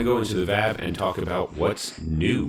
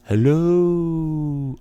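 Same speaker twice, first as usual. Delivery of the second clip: loud, high hello; calling out; 9 semitones higher, 6 dB louder than usual. Real, not acted. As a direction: call out to check. Calling out on audio test.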